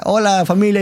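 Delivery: saludo alegre, más agudo y un poco más fuerte; padre cariñoso actuado. Retold or imitated. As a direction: imita al papá que llega feliz. (papá entrando con un saludo cálido y agudo)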